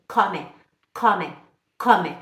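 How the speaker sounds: cada komme separado, com O curto e aberto. Shown as a demonstration. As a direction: modele komme abrindo o O. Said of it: "É um O aberto". (komme com “ó” bem aberto)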